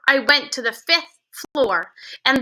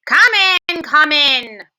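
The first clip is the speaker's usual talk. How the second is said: snapped; 2 semitones higher, 5 dB louder, slower than usual. A narrator's reading. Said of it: "snapped the Grand High Witch".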